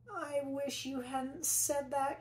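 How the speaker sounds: put-on a slow, high, groaning girl's voice; groaned. Camilla to the therapist, slow groaning complaint. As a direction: drag it out like a fed-up kid. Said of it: "Camilla groaned".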